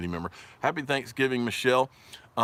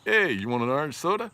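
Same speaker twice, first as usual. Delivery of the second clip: mock Yankee; 4 semitones higher than usual. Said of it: "how do you order an orange soda".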